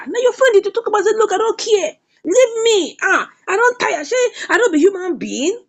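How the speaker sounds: high-pitched imitation of a tired friend; mock someone who has had enough; fed-up complaint. Quoting fed-up friend in quarrel.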